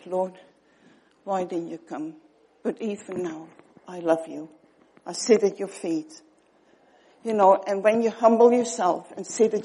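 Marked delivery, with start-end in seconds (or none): 0.1-6.2 soft, quieter grieving plea; a gentle, sorrowful lament to the Lord; mournful and hushed, as if heartbroken; sad voice. Retold or imitated. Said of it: "she probably said it in a sad voice".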